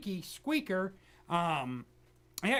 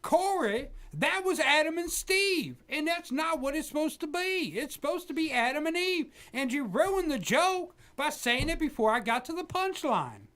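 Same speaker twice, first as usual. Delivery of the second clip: mock angry old preacher; 3 semitones higher than usual. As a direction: scold the interrupting host in a mock rage. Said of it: "Pat, are you there?".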